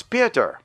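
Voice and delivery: "Pieter" with an ee in the first syllable; mispronounced name. Real, not acted. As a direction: attempt "Pieter" as PEE-ter. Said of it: "I probably said it wrong again".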